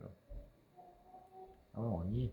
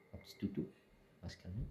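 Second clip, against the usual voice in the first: soothing whisper; 7 dB quieter than usual. Real, not acted.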